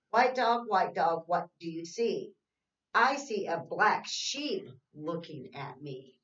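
sing-song read-aloud, slow and even; reading to children. Acted. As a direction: read the rhyme to little kids, slowly. Reads picture book.

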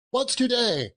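high-pitched, eager call; excited cry. Acted. Scrooge calls down to a boy from the window, excited cry. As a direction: cry it down to someone below. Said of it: "cried Scrooge, calling downward".

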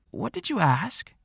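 jolted out of his thoughts; startled. A narrator's reading. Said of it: "his eyes wider than usual".

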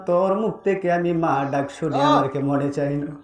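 acted mournful plea to a child; mother's lament. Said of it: "পাগলের মতো মা কান্দে আর বলে".

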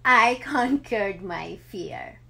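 a happy laugh breaking into the line. Real, not acted. Mother sharing her triumph, laughing as she says it. Mother tells of conquering fear.

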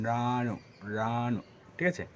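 রানু said slowly with the tongue lifted for the r; slow demo of রানু. Shown as a demonstration. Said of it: "ঠিক একটু উপরে উঠবে অনেকটা".

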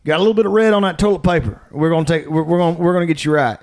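a drawling country doctor reassuring a patient; good old boy doctor. Retold or imitated. Country doctor telling patient about blood, lightly voiced. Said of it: "Says you".

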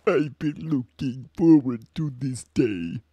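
Andross voice. Acted. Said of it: "this is my Andross".

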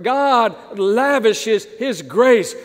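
drawn out, very slow "lavishes"; slow emphasis. Shown as a demonstration. Preacher lingers on the key word, very slowly. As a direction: stretch every word to make it sink in. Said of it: "And this is that word".

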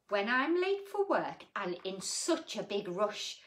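put-on gentle read-aloud for children; sing-song storybook reading; story reading. A narrator's reading. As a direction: read it like a bedtime picture book. Reads rhyming picture book aloud.

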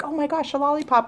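squealing high with delight at a lollipop; excited customer. Retold or imitated. Shop guy's customer grabbing a pen, retold as a high thrilled squeal. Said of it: "was all excited".

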